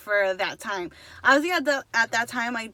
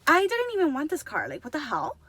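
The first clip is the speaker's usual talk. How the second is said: mildly indignant retold complaint; a touch of exasperated disbelief; upset protest; 3 semitones higher than usual. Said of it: "I was so upset".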